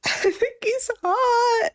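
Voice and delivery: high voice, laughing through the words; laughing confession. Real, not acted. Co-host admitting her crush, laughing. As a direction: giggle out the admission.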